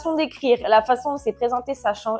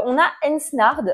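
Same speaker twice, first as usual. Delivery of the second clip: English accent attempt; 3 semitones higher than usual. Real, not acted. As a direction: try the English title in an awkward English accent. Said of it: "désolée pour mon magnifique accent anglais".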